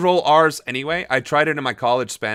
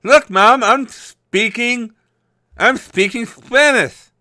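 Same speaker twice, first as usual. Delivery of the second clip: put-on high, showing-off child, dragged slowly at the end; mocking a little kid bragging to Mom; 8 semitones higher, 5 dB louder, slower than usual. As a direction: play a proud kid calling to Mom. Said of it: "talking like this".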